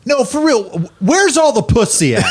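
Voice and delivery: high, laughing put-on voice; mock open-mic comic. Open-mic comic asks the crowd, high and laughing. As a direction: ask the crowd earnestly. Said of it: "he was like".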